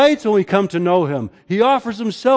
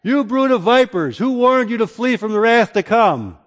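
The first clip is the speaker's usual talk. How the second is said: fiery rebuke; 4 semitones higher than usual. Retold or imitated. John the Baptist rebuking the crowds, fiery and raised. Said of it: "to the crowds that came out".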